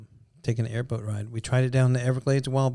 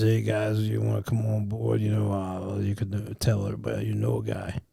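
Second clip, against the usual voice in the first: imitating Cajun accent; 2 semitones lower than usual. Host mimics the Cajun airboat driver inviting them aboard, lightly accented. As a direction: mimic the Cajun guide welcoming folks aboard. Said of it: "He just talked like this".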